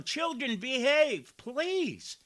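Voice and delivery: high, loud scolding schoolteacher; mock teacher. Commentator mocking the councilwoman as a teacher hushing children. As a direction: hush the class like a teacher. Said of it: "he's not your student in the classroom".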